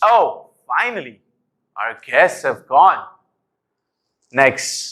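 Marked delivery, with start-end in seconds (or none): 0.0-3.0 cross, angry reading. Saying one sentence in several tones, now the angry one: angry tone. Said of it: "I'm going to be doing it in an angry tone".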